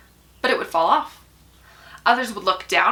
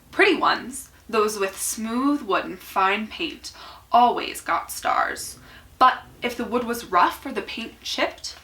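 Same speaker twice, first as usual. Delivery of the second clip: measured picture-book read-aloud with lifted key words; story narration. A narrator's reading. Reader telling children about small wooden people, storybook narration. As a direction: read it expressively, pausing between phrases.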